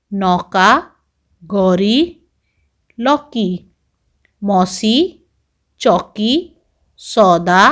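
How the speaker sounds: each word spaced out, the au stressed; reading word list. Shown as a demonstration. Teacher reading vocabulary aloud to children, one word at a time. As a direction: read word by word like a teacher at the board. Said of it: "तो चलिए पढ़कर सीखते हैं".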